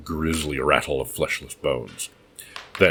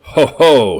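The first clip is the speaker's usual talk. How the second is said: booming mad laugh, much louder; roaring laugh; 10 semitones higher, 13 dB louder than usual. Acted. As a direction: roar it out with madness. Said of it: "he roared".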